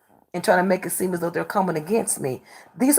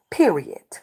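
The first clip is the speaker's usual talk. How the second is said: whisper; 2 semitones lower than usual. Real, not acted. Final word after insulting a viewer.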